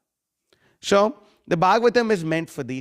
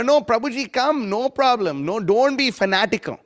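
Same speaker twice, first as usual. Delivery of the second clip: mock coaxing; 5 semitones higher than usual. Lax devotee urging the preacher to relax, mild mock soothing. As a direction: lightly imitate a soothing devotee brushing off his concern.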